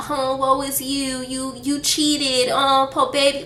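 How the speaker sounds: high, drawn-out sarcastic cooing; mock pity. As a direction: coo fake sympathy at a crying cheater. Mocking his tears as pity party.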